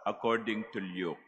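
solemn, measured scripture proclamation; Gospel reading. Acted. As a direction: proclaim it like a priest at Mass.

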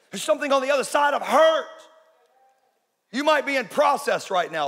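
building preaching. Real, not acted. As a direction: preach with rising force, driving each repeated phrase harder. Preacher builds to full force.

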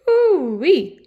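loud, high cry of disgust; disgusted pooh-wee. Acted. Hairdresser smelling the coat, loud disgust. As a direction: hold your nose and cry it out.

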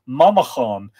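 Mamachán said the Irish way, with a throaty ch; Irish pronunciation. Shown as a demonstration. Host explains where that name comes from, Mamachán in Irish pronunciation. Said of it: "would be pronounced".

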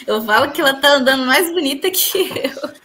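talking through a real laugh; amused, breaking into laughter. Real, not acted.

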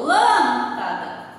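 "lâmpada" slowed, with a stronger first syllable LÂM; stress on LÂM. Shown as a demonstration. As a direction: punch and lengthen LÂM in "lâmpada". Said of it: "ele tem um som mais forte". ("lâmpada" com mais força no LÂM)

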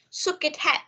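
"Shook it head" joined into one phrase; linked pronunciation. Shown as a demonstration. Teacher models the phrase for students, "Shook it head" linked. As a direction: link "Shook" into "it", then "head". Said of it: "Mình sẽ đọc là shook it head".

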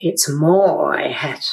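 put-on low, drawn-out child's Bergen accent; imitating granddaughter's best Bergen accent. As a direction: stretch MY wide in a Bergen accent. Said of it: "in her very best Bergen accent".

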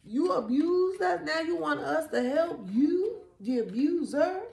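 high-pitched, incredulous outrage; indignant refusal. Acted. Voicing indignant people refusing to help.

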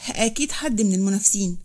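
mildly angry demand; understated indignant accusation. Acted. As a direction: insist on answers with a touch of anger. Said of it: "وقال بغضب".

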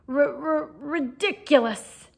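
put-on a scared boy forcing the word out; terrified stammered squeak; frightened squeak. A narrator's reading. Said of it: "squeaked Neville".

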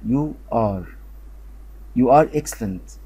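slow, deliberate teacher modelling; slow model reading. Shown as a demonstration. Teacher modelling an English sentence slowly. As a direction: spell it out slowly for learners.

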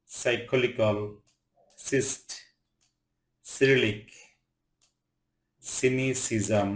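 সাইকল, ফ্যান্সি with C said as "s". Shown as a demonstration. Teacher reading CY words to learners, "s" in সাইকল. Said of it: "সি এর উচ্চারণ দন্ত স মতো হয়".

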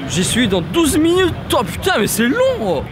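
slow, stretched-out grumble; long-vowelled moan about waiting; drawn-out complaint. Real, not acted. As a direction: drag the words out in exasperation.

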